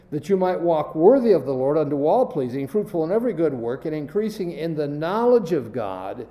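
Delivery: reading aloud, leaning on key words; stressed scripture reading. Shown as a demonstration. Preacher reading Colossians to the class, stressing key words. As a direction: read the verses hitting the important words. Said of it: "I want you to listen as I stress certain words".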